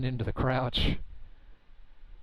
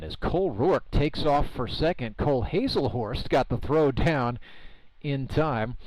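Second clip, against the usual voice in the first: rising, louder rush as the throw comes down; excited play call; 3 semitones higher, 4 dB louder than usual. Real, not acted. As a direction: call the steal out live. Live call of a stolen base.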